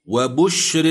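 وبشر recited with a light ر; Quranic recitation. Shown as a demonstration. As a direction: intone وبشر. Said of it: "بالإمالة كما سمعنا".

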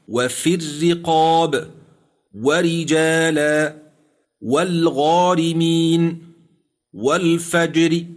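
each word recited slowly with a thin ر: وفي الرقاب, ورجالا, والغارمين, والفجر; Quranic recitation. Shown as a demonstration. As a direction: intone each word alone, stretched. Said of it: "قال الشيخ زكريا نحو".

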